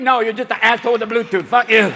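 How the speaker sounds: fast, loud snappy retort; mock deaf retort. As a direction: tell him off quickly. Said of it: "deaf people are going".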